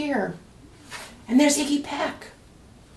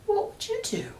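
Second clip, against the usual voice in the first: soft whispered, higher; whispered question; 13 semitones higher, 5 dB quieter than usual. Acted. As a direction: breathe the question to the clerk. Sophia asks the clerk, unsure.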